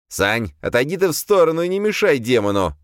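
the demon urges him to step aside; exclaiming demon. A narrator's reading. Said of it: "воскликнул Легион". (восклицая)

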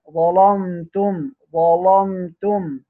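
ظلمتم with the lam after the ظ made thick and heavy, drawn out slowly; heavy Warsh lam. Shown as a demonstration. Teacher demonstrating to students Warsh's heavy lam in ظلمتم. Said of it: "التغليظ لسيدنا ورش".

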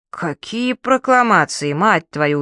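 surprised outburst. Acted. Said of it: "удивился дядя".

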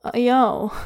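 a mild warning with desperation underneath; warning, desperate. Acted. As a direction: plead and warn at once. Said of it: "warning and, and desperate".

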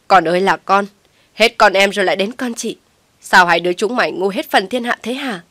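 loud, anguished scolding; a despairing mother lamenting loudly; wailing reproach. A narrator's reading. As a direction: cry out at both foolish daughters. Mother wails at daughters.

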